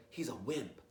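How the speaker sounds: a quiet scornful aside; hushed sneer. Acted. Burglars sneaking in quietly.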